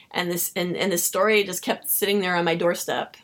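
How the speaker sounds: ordinary delivery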